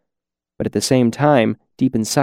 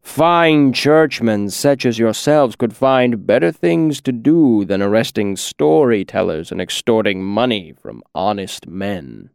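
smooth as honey. Acted. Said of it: "rolled out like thick honey".

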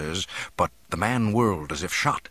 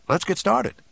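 much higher-pitched youthful voice; eager young man; 12 semitones higher, 4 dB louder than usual. A narrator's reading. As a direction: urge them to get moving. Youth urges departure.

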